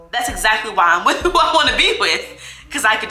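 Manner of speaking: real laugh breaking into an emphatic statement; amused, laughing. Real, not acted. Laughs defending her choice of partner.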